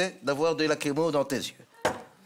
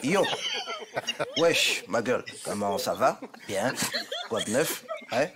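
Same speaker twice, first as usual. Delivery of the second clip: put-on street kid. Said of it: "je suis un jeune".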